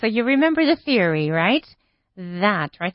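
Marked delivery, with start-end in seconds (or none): 2.2-2.7 That with tongue between teeth; exaggerated th practice. Shown as a demonstration. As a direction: stretch the th in That. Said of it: "stick your tongue between your teeth".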